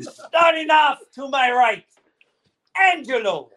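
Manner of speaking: hammed-up pirate captain greeting. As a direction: bellow it like a cartoon pirate. Pirate host takeover skit.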